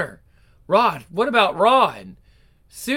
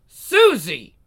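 shocked cry; 5 dB louder than usual. Acted. Aunt cries out after slap.

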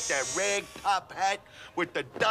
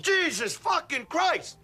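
exasperated curse; 7 semitones higher, slower than usual. Acted. Exasperated at slow customer.

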